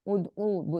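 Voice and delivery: "ادعو" split as ud-oo, free of any h; ain, no h. Shown as a demonstration. Teacher models for repetition, "ادعو" with ain and no h. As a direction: say "ادعو" with a clean oo after the d. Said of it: "ہا نہیں ہے".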